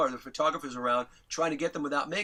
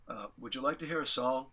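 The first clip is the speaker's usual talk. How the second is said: low-key, said straight out; casual offer, softer and matter-of-fact; like a rock star; 3 semitones lower, 5 dB quieter than usual. Retold or imitated. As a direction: imitate a star's unfussed offer. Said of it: "He just said it straight out"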